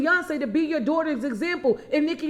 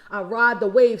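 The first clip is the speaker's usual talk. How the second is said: louder, punching WAVE; preaching it out with conviction; rising exhortation; 3 semitones lower, 6 dB louder than usual. Acted. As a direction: lift the voice on the wave.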